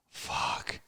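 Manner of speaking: soft, voiceless swear; whispered curse. Pretend. Playing the tough guy, whispered curse. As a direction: whisper it under the breath.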